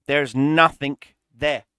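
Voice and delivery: slow and emphatic on "nothing"; stress on nothing. Real, not acted. Showing viewers the empty tech tree, stressing "nothing".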